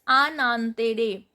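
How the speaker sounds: "anantere" with N linked into the next vowel; N pronounced. Shown as a demonstration. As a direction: sound the N in "anantere". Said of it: "I am pronouncing this N".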